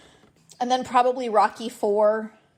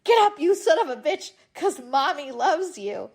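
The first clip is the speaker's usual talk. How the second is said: fond gruff coach; 4 semitones higher than usual. Retold or imitated. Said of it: "and I'm like".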